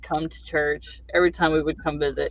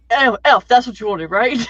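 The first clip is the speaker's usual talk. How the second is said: mock boom; 5 semitones higher, 3 dB louder than usual. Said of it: "And he's like".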